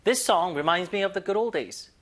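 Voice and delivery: slow, deliberate drill read; slow model sentence. Shown as a demonstration. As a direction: read it slowly so they can copy. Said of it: "이거 그대로". (천천히 따라 읽기 시범)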